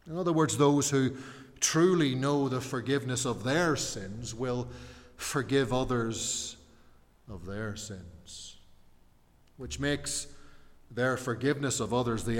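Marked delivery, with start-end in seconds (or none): none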